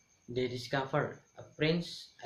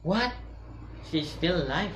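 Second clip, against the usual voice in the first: higher, louder furious shriek; queen screams; 4 semitones higher, 4 dB louder than usual. Acted. Jealous queen learning Snow White lives, furious shriek. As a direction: shriek in outrage. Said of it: "and she screams".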